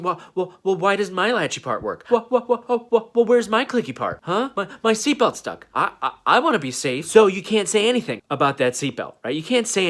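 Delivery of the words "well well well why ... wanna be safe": panicky whine. Retold or imitated. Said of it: "They'd be going".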